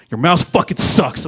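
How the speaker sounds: loud, high, drawn-out complaint; slow, exaggerated angry gripe; mock hostile outburst. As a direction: imitate an unfriendly coworker griping loudly. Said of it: "his demeanor changed. He used to be so friendly".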